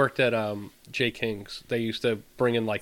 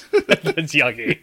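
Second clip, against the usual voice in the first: put-on slow, louder childlike whine of yucky; copying a friend's word in a slow babyish whine, louder; mock childish voice; 4 semitones higher, 7 dB louder, much slower than usual. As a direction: drag it out like a pouting kid.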